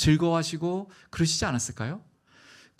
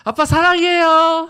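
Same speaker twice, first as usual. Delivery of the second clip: sweet-talking son; 13 semitones higher, 12 dB louder, slower than usual. Retold or imitated. Son repeating sweet dodge.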